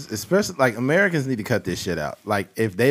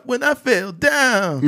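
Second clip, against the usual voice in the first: put-on old man voice; 11 semitones higher, much slower than usual. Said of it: "and he's like".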